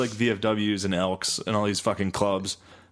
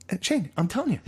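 higher, laughing mock dad voice; imitating dad; 9 semitones higher, faster than usual. Shane's dad insisting, high mock voice. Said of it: "he'll be like".

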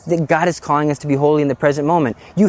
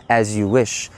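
lovesick servant reply; 7 semitones lower, slower than usual. Retold or imitated. Wesley answering.

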